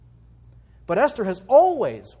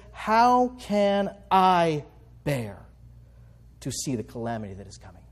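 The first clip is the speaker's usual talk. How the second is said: pleading Esther; 4 semitones lower than usual. Retold or imitated.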